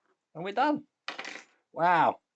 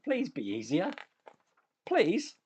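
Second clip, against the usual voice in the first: playful pleading; 3 semitones higher than usual. Real, not acted. Begs the next stage to be easy.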